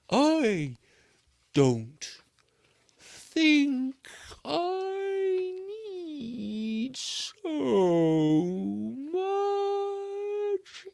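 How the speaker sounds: very high, slow, whimpering sloth; a weary sloth protesting it needs no energy; slow whiny sloth. Acted. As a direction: stretch each word out in a tearful whine. Sloth whining slowly.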